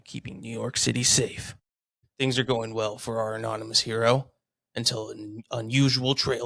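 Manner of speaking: dramatic movie trailer narrator; cinematic trailer voice. Pretend. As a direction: read it like an epic trailer. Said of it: "Can you say it in a cinematic voice?".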